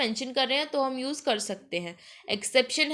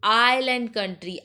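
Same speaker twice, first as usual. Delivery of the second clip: "island" drawn out with a strong opening "eye" sound; stress on island; 4 dB louder, much slower than usual. Shown as a demonstration. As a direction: lean on the first vowel of "island", slowly. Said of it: "आइलैंड को जब हम pronounce करेंगे तो आई का sound".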